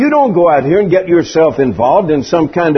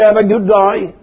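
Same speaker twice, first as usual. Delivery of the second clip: put-on light Australian accent on the greeting; 3 semitones higher than usual. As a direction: imitate an Australian, "day" toward "die". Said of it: "if you're Australian and you say".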